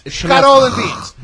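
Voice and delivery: Scaro said loud and slow as SHKAH-roh; Italian-American way. Shown as a demonstration. Proudly saying the dish the family way, loud and slow. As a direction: Scaro and beans, drawn out, final vowel dropped. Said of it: "Italian-American pronunciation".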